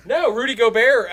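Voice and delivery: laughing hard through the words. Real, not acted. Cohost laughing at the Darbert mix-up, laughing. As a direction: crack up while trying to talk.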